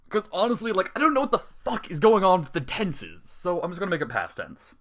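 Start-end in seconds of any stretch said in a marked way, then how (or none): 0.1-3.2 loud, high exasperated rant. Real, not acted. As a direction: vent about the tenses. Exasperated with grammar.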